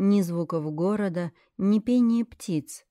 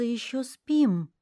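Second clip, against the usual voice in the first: uncertain; 5 semitones higher, slower than usual. Acted. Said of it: "неуверенно произнёс".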